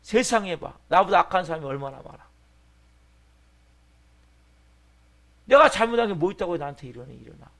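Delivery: aggrieved outburst; angry protest. Acted. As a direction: loudly complain about being wronged. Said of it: "분노하는 거죠".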